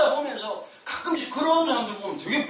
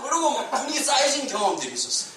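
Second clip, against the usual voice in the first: normal talking voice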